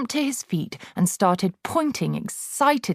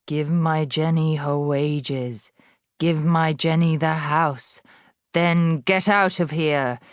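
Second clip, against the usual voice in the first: ghostly threat. Acted. Ghostly voice of Magnus.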